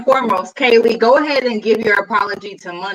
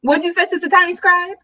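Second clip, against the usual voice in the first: quick, higher churchy call-out; mock preacher; 5 semitones higher, faster than usual. Pretend pastor calling on Sister Tiny Scribe, mock preaching. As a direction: put a congregant on the spot, preacher style.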